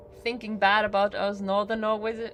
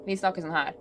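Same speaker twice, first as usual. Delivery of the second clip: northern Norwegian dialect; faster than usual. Shown as a demonstration. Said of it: "we speak like this".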